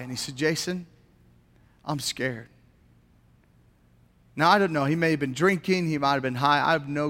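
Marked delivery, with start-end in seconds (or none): 0.4-2.5 subdued, understated imitation of a scared caller; mildly tearful retelling. Student phones youth pastor at night, mildly tearful. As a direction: quietly imitate someone scared, without sobbing. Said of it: "he began to cry".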